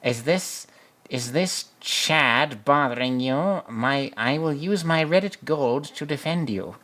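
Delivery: high, hammed-up gallant nerd voice; mock white knight. Guy mocking a rival suitor, hammed-up gallant voice. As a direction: play the fedora knight rescuing milady, all pomp. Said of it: "this guy's like".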